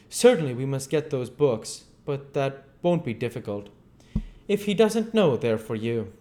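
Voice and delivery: cautious doctor probing gently; lightly voiced, careful questioner; a hint of wary Kemp. Kemp, nervous, placates.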